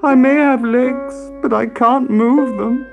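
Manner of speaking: high, slow, plaintive lament; crying out. A narrator's reading. Piano explaining it cannot flee, crying out. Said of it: "cried the piano".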